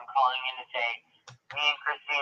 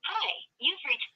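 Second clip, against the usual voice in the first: voicemail greeting; 10 semitones higher, 3 dB quieter than usual. Real, not acted.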